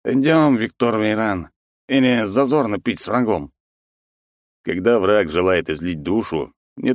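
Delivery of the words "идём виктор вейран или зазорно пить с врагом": put-on drunk rival voice. Enemy invites hero to drink.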